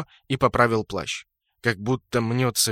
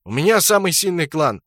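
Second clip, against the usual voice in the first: higher, louder furious shout; 7 semitones higher, 7 dB louder than usual. A narrator's reading. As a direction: yell it in proud outrage. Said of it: "закричал Брутто".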